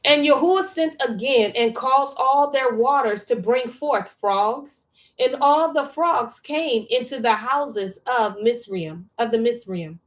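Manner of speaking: measured, emphatic reading aloud; scripture reading. A narrator's reading. Reading scripture to a study partner, measured read-aloud. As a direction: read the verse out slowly and firmly.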